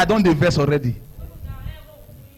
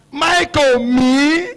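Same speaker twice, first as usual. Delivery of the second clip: surprised; 6 semitones higher, much slower than usual. Retold or imitated. Confronting son in disbelief.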